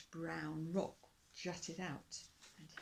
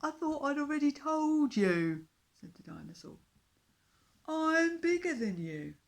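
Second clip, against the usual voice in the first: slow, booming, ending in a huge roar; gloat, then roar him away; bragging dinosaur; 6 semitones higher, 15 dB louder, slower than usual. A narrator's reading. Dinosaur boasts, then bellows at the fish king to go away.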